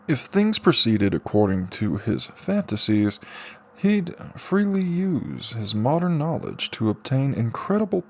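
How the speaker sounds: steady audiobook narration with Subaru's lines voiced; story narration. A narrator's reading. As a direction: read it like an audiobook chapter. Reads a light novel aloud.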